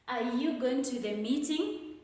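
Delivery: "meeting" lifting at the end as a yes-no question; rising intonation. Shown as a demonstration. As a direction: let the pitch climb on "meeting". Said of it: "will take the rising intonation".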